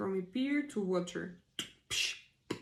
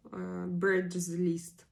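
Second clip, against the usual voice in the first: whispering; 2 semitones lower, much slower than usual. Real, not acted. Whispered aside.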